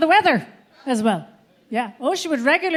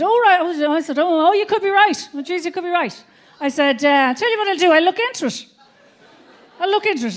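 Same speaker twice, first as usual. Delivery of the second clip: flustered backtrack; 5 semitones higher than usual. Retold or imitated. Madly backtracking to husband.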